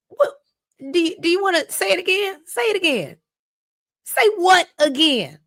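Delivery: high-pitched mock threat; hammed-up high taunt, slowing at the end; acted menacing challenge. Acted knife threat to Chelsea.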